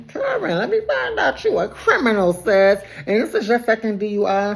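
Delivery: very high, teasing squeal of a voice; high-pitched mock interrogation of a friend; mock disbelief. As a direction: shoot way up high, playfully scandalized. Acts out own mock-shocked reaction to Karen.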